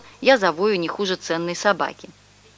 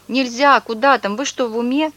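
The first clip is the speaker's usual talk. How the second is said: higher, agitated hammed-up yell; 4 semitones higher than usual. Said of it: "перестал выть и заорал".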